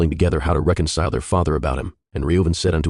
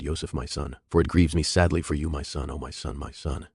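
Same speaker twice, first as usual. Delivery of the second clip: much softer, broken grieving lament; weeping lament; 8 dB quieter than usual. A narrator's reading. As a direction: fade into soft weeping for the son. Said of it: "lifted up his voice in weeping".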